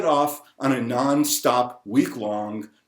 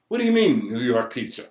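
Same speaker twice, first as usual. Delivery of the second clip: mock indignation. Challenges outsiders claiming New York pizza.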